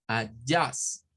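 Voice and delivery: Adjust with schwa, uh-JUST; English adjust. Shown as a demonstration. Teacher modelling Adjust for students. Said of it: "esta tiene dos".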